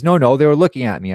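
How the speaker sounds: imitating dad's heated insistence; insistent retort. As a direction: push back hard in a retold argument. Retold argument, dad insisting.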